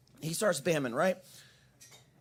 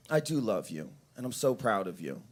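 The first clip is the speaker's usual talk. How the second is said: low, gentle fatherly affection; tender sincerity; 6 semitones lower than usual. Retold or imitated. Dad tells his daughter he loves her, tender. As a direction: lower the voice for a heartfelt moment.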